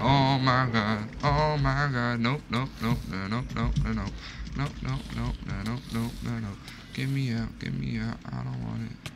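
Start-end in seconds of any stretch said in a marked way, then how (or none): 2.2-9.1 higher, frantic begging; panicked pleading. Real, not acted. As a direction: beg to be let go. Panicked refusal of item.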